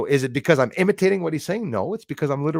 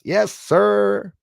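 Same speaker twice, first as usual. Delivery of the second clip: loud, high call-out; hearty acknowledgement; 7 semitones higher, 6 dB louder than usual. Real, not acted. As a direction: sing out to a viewer. Acknowledging a viewer in chat.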